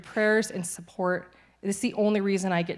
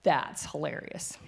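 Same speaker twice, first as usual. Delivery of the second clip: laughing, then slow dry drop; laughing in disbelief; much slower than usual. Retold or imitated. Reading her scan results, a slow laughing aside. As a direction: laugh at the irony of the pajamas.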